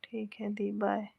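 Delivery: soft breathy whisper, no voice; whispered goodbye. Real, not acted. Whispering goodbye to sister on the live stream. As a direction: whisper it so no one else hears.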